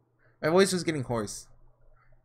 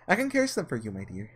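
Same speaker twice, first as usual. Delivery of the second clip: witch voice; 2 semitones lower than usual. Acted. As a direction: tempt him sweetly like a witch.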